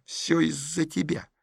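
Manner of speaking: soft hissed reproach; hissing. Acted. Masha hisses at Petrov in the cinema. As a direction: hiss it through the teeth. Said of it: "зашипела Маша".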